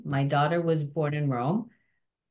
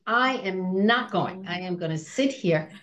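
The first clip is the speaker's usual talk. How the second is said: rebellious schoolgirl. Retold or imitated. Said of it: "trying to be rebellious with the school".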